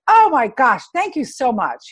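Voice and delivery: retold delighted thanks. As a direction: act out a happy man's thanks. Retold delighted thanks from happy man.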